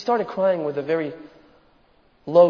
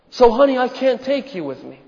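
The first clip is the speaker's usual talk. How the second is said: father's sorrowful refusal; 6 semitones higher than usual. Acted. Father refusing daughter in retold story.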